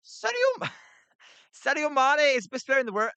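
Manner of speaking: high, giggly attempt at a Scouse accent; breaking up laughing mid Scouse impression. To chat asking for Scouse, a laughing high Scouse accent. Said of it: "can you give us your Scouse".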